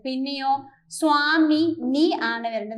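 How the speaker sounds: the word നീ leaned on with a falling tune; stress on നീ. Shown as a demonstration. Teacher correcting a wrong option for students, with stress on നീ. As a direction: press നീ to correct സ്വാമിജി. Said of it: "സ്വാമിജി അല്ല വരേണ്ടത്".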